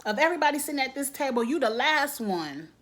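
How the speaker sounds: mock Lady Mae telling her off; sassy put-down. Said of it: "And Lady Mae is like".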